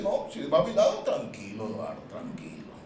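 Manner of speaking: calm voice of God. Acted. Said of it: "Dios dice".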